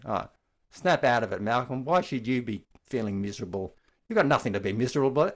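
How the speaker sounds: brisk, dismissive telling-off; harsh scolding tone. Shown as a demonstration. Teacher demonstrates a harsh inner critic, brusque and scolding. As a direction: snap him out of it impatiently. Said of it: "It's not that sort of tone of voice".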